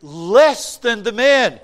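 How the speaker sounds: high, fast, indignant protest; objecting churchgoer. Retold or imitated. Preacher voicing a congregant's objection, high indignant protest. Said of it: "People say to me".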